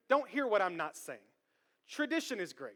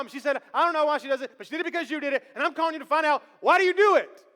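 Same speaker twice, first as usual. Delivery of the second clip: higher and louder, pressing for an answer, building to the last why; urgent phone question; 4 semitones higher, 6 dB louder, faster than usual. Retold or imitated. Husband on the phone demanding grandmother explain the ham, louder and rising. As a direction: act the husband's rising, exasperated curiosity.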